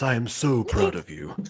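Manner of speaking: put-on breathy, smooth dad voice. Switching into a dad character's voice, very breathy and smooth dad voice. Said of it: "This is a very breathy and smooth dad voice".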